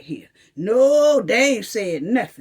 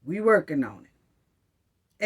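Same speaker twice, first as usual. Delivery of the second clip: slow, low, drawn-out brush-off; sarcastic slow official line; mocking officials; 6 semitones lower, slower than usual. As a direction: stretch out the lazy excuse. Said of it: "another way of saying".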